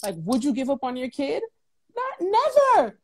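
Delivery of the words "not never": NEVER pitched up high and drawn out slow; emphatic never. Real, not acted. Guest stressing that a parent would never give up. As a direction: insist on it, the word never held long and high. Insisting she'd never abandon a child.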